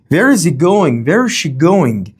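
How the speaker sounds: "Where is he going" and "Where is she going" falling at the end; falling intonation. Shown as a demonstration. Teacher demonstrating WH questions, falling intonation. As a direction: drop the pitch at the end of each "going". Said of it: "the intonation is falling".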